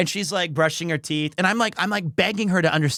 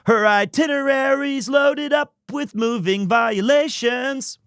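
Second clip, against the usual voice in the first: excited quoting; 4 semitones higher than usual. Retold or imitated. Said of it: "this is the best line".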